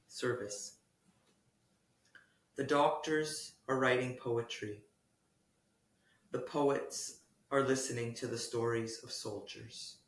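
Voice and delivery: measured poetry reading with long pauses between lines; solemn, spacious recital of a poem. Acted. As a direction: read it as a poem, unhurried, letting each line settle. Reads own poem aloud.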